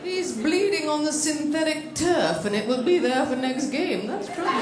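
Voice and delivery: slow, drawn-out mock commentary; imitated sports announcer. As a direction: report disaster with an announcer's measured understatement. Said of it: "That's really how they call the shit".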